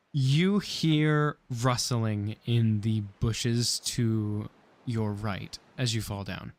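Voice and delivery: slow, measured scene setting; game master narration. A narrator's reading. Game master describes rustling to player, slow narration. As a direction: set the scene slowly and deliberately.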